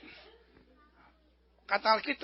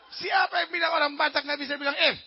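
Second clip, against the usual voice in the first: raised mock-furious Batak accent, "fitnah" with a P; angry Batak accent; 4 semitones higher, 3 dB louder than usual. Batak man asking who dares say so, mock-furious Batak accent. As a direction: protest like an outraged Batak, dragging out "Dasar fitnah". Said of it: "Dia marah sekali, dia bilang".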